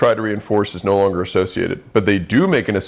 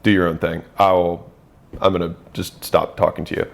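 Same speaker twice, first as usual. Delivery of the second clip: lower, matter-of-fact stern retelling; 4 semitones lower than usual. Retold or imitated. Husband fed up with wife's bad mood, mildly stern. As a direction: lay down the limit, mildly stern. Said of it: "I would then get stern and be like".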